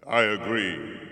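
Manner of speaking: slow, loud booming agreement; slow giant voice. Acted. Giant agrees, boy later echoes.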